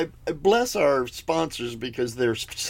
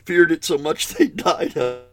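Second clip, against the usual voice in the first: trying not to smile; 2 semitones lower than usual. Real, not acted. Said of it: "I'm not laughing".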